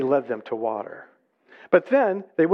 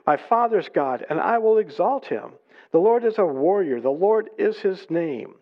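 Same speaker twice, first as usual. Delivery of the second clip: higher, measured declamation of praise; exultant scripture reading; 3 semitones higher than usual. Acted. The Israelites sing their song to the Lord, exultant reading. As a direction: proclaim each line as praise.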